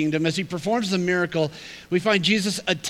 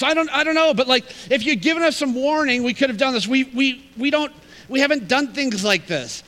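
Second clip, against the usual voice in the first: exasperated complaint; 5 semitones higher than usual. Retold or imitated. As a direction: voice the disciples' frustrated protest. Disciples' exasperated complaint to Jesus.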